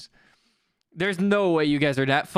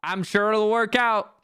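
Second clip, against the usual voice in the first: raised, insistent repeat; mock-confident, slightly raised voice; overdone reassurance; 3 semitones higher than usual.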